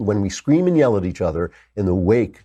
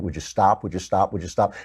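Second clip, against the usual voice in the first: put-on weary older brother; 2 semitones lower than usual. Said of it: "his older brother keeps saying".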